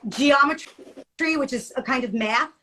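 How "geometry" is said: slow, each syllable apart: gee-om-e-try. Shown as a demonstration. Teacher showing a kid the syllables, slow and split. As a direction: stretch geometry out slowly. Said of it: "break it down into syllables ... say it slowly".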